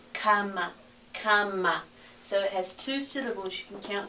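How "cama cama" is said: Spanish "cama", stressed on the first syllable; hiszpańskie słowo. Shown as a demonstration. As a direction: model "cama" clearly for learners. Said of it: "word for bed".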